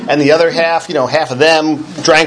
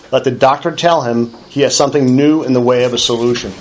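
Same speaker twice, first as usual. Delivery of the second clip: book reading. Acted. Speaker reads the Big Book to the meeting, measured. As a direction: read the passage aloud, steady and deliberate.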